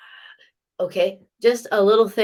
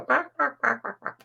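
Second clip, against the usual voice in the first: mock barking; 5 semitones higher than usual. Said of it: "They want me to go".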